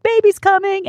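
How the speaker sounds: put-on high shouted announcement of the baby; excited shout. Nurses announcing the baby is coming, shouted. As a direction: call it out loud and high. Staff announcing birth, retold.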